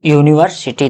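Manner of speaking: यूनिवर्सिटी starting with a clear "yu" glide; यूनिवर्सिटी opens on a consonant "y" sound; yu sound demo. Shown as a demonstration. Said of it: "इसको क्या प्रोनाउंसिएट करेंगे".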